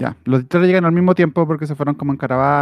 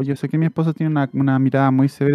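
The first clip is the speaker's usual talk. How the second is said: put-on loving old lady. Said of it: "muy amorosa".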